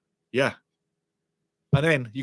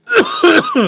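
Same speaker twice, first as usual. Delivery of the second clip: loud high choking cough; violent cough; 11 dB louder than usual. Real, not acted. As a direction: hack it out, still choking. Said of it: "Excuse bloody me".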